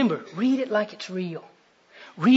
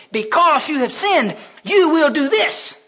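slow, raised divine sentence; thundering judgement; 7 semitones higher, 6 dB louder, slower than usual. Acted. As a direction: hand down the verdict, rising on the last words. God pronounces judgement, acted.

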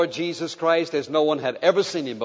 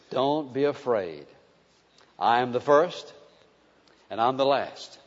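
gentle reassurance; 4 semitones lower, 3 dB quieter than usual. Acted. Jesus speaking to frightened John.

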